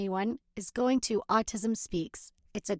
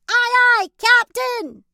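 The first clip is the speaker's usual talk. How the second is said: loud high slow aye aye; eager pirate reply; pirate shout; 13 semitones higher, 11 dB louder, slower than usual. Acted. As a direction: call it to the captain like a pirate. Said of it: "They shout".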